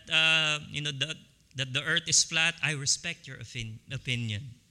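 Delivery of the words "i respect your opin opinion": mock polite. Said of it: "Or you say something that".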